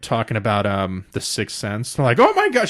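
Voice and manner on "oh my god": very high-pitched imitated outburst; mock scream. Retelling her shock at The Sixth Sense, mock screaming. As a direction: squeal it in pretend shock. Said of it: "She's, like, screaming at it".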